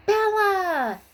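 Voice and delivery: loud high call of the frog's name; an excited yell on spotting her. A narrator's reading. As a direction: shout her name across the pond. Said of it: "Wanda yelled".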